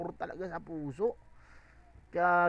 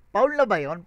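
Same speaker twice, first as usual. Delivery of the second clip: loud, raised foul question; stunned question; 3 semitones higher, 11 dB louder than usual. Real, not acted. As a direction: ask the chat, still shocked. Asks if the line crossed. (gulat na tanong)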